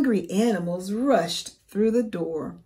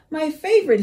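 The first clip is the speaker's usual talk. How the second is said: storybook character voices; 7 semitones higher, 6 dB louder, much faster than usual. A narrator's reading. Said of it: "he said".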